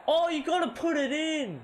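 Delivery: high, loud cry of frustration; frustrated shout. Real, not acted. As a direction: shout it at a blown chance. Missed chance in the game.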